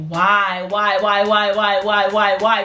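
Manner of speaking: mock self-scolding, rapid-fire chant; acted frustrated repetition; mad at self. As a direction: hammer each repeat in retold exasperation. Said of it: "I was really mad at myself".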